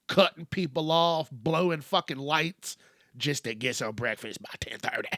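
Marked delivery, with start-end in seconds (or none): 3.2-5.1 a softer whispered aside. Real, not acted. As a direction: drop to a whisper mid-rant. Rant trails into whisper.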